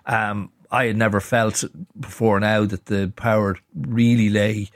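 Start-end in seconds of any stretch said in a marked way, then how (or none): none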